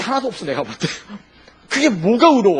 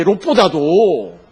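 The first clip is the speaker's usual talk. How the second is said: slow emphatic repeat; 6 dB louder, much slower than usual. Real, not acted.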